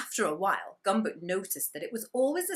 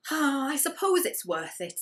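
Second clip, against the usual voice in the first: higher, slightly louder reluctant sigh; Gumboot's sigh; 8 semitones higher, 4 dB louder than usual. Acted. Gumboot parting with chocolate before throwing, reluctant higher voice. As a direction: give it up with a grudging sigh. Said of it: "said Gumboot as he took aim".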